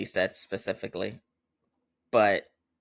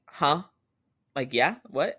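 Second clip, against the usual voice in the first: higher, questioning mock confusion; caught off guard; 4 semitones higher than usual. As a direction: imitate someone who only caught their name. Distracted friend only heard her name.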